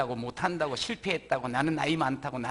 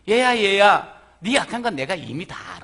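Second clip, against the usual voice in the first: tender calling; 3 semitones higher, 8 dB louder than usual. Acted. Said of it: "뭐라 그런 거 아니?".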